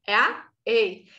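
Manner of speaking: "A, E" said as two separate sounds; isolated vowel sounds. Shown as a demonstration. Teacher showing the sound in both animal names, "A, E" as isolated vowels. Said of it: "um barulhinho do A em inglês".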